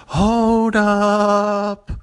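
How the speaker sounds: high, loud startled shout; sudden outraged hold-up cry; shocked yell. Retold or imitated. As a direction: stop him short, loud and high. Teller's shocked reaction to pun.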